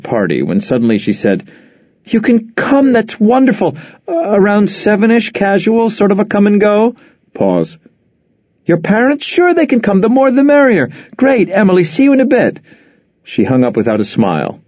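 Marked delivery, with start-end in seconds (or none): 2.1-7.0 much higher, sugary telephone politeness; fake sweet phone voice. Phone invite, forced cheer. 8.6-12.6 much higher, sugary telephone politeness; fake sweet phone voice. Phone, overly cheerful.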